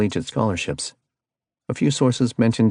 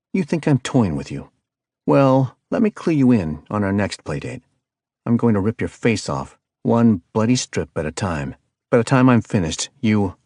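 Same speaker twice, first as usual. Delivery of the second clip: louder, rising rage over the phone; furious threat; 3 semitones higher, 4 dB louder than usual. Acted. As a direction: spit the threat out at the caller. Reed threatens the kidnapper.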